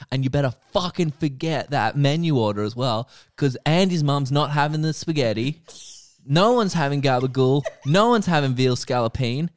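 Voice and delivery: hammed-up ranting at the waiter, building; retold angry outburst.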